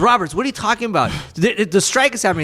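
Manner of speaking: mock exasperated disbelief; frustrated friend. Lopez voiced, frustrated.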